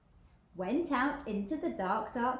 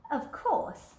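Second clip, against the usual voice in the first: whispered aside; 6 semitones higher, 4 dB louder than usual. A narrator's reading. Narrator telling children a secret, whispered.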